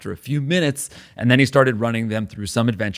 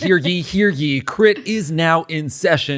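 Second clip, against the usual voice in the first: slow, raised proclamation call; town crier; 4 semitones higher, slower than usual. Pretend. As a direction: call out like a herald. Opening court like a herald.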